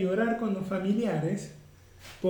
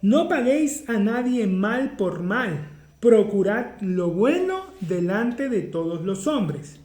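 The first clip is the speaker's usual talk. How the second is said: solemn scripture reading. Acted. Reads scripture aloud.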